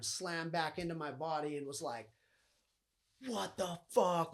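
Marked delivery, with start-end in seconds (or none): 3.3-4.3 louder, slow stunned outburst; startled, drawn-out what the fuck; retold shock. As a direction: relive the jolt of waking. Slamming back into his body.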